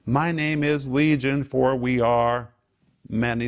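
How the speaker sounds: slow, heavy demon answer; slow ominous demon. Acted. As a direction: let the name hang, menacing.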